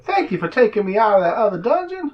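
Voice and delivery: high squeaky rat, laughing through it; chirpy little rat friend. Acted. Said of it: "This is my rat voice".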